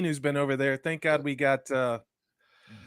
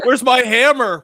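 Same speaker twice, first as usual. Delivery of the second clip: laughing through the question; loud, laughing mock search; 7 semitones higher, 9 dB louder than usual. Real, not acted. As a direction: crack up while asking. Laughing joke.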